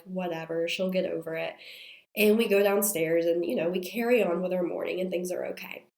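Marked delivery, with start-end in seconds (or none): 0.0-1.5 lower, offhand shrug of a voice; dismissive, retold. Mom shrugging off her crying child, retold dismissively. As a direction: brush it off in a lowered voice. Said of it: "I'm also just like".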